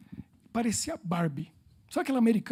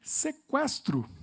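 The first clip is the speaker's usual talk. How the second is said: very slow, higher; drawn-out translation; 6 semitones higher, much slower than usual. Retold or imitated. Explaining to the audience what kidnap means, drawn out. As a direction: stretch the word out. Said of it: "Que que é kidnap".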